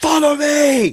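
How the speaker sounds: very high, urgent yell. Voicing a character who calls the group down a hallway: yelling. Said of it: "He's yelling at you guys".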